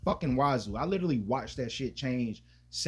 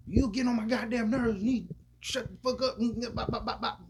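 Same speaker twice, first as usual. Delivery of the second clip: high, mock angry mom scolding a kid; mom yelling; 10 semitones higher than usual. To her kid, a hammed-up angry mother yelling. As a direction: play his mother snapping at him, pitched way up.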